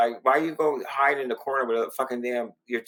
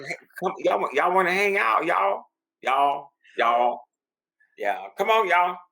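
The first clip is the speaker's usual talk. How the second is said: put-on Southern accent; 4 semitones higher than usual. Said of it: "old Southern accent".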